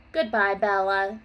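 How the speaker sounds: calling out. Acted. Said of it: "she called".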